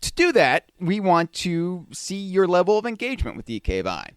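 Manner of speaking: lightly voiced salesman pitch; a hint of a slick huckster; snake oil seller. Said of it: "the pitchman voice".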